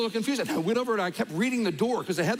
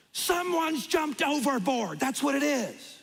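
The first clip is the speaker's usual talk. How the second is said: slow, high call down a long hallway; retold yell; 8 semitones higher, slower than usual. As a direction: call it out slowly to the whole hall. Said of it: "she yells out".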